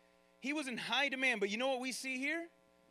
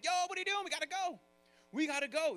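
impatient, pitched higher, mock frustration; frustrated disciples; 5 semitones higher, faster than usual. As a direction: hurry him up with a touch of irritation. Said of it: "They're frustrated".

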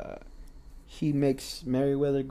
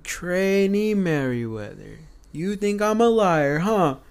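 mock angry drill instructor; 5 semitones higher, 3 dB louder, slower than usual. Drill instructor accusing the trainee.

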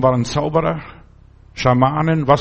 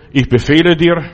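louder, domineering dragon order; commanding dragon; 2 semitones higher, 5 dB louder than usual. Retold or imitated. Devil as a dragon ordering people about, loud and domineering. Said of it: "Oder als Drache".

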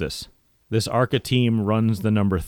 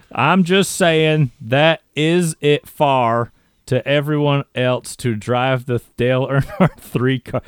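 slow halting read-through; 4 semitones higher, 4 dB louder, slower than usual. Shown as a demonstration. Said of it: "needs a Kentuckian translator".

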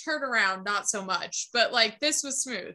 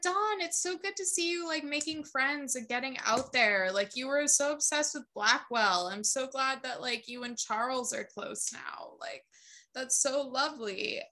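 put-on rambling drunk-like; 5 dB quieter than usual. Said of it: "rambling, like she's high or drunk".

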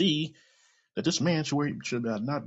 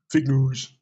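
"Fake news" barked loud and dismissive; mock yell; 8 dB louder than usual. Mocking Trump shouting "Fake news" at reporters. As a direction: spit out "Fake news" like a put-down. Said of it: "you yell at them".

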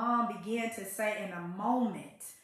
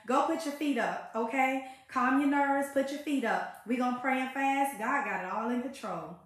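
softer, soothing mother telling her to rest; calm mother's advice. Retold or imitated. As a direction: settle her daughter down gently, a touch quieter. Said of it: "my mom was very quiet".

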